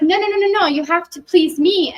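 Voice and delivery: high-pitched, insistent mock family member; demanding relative. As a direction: whine it like a pushy relative who won't take no. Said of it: "And they're like".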